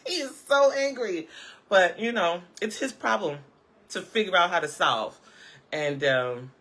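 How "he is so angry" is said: high, giggling repeat; laughing. Real, not acted. Vlogger repeating her own joke while laughing.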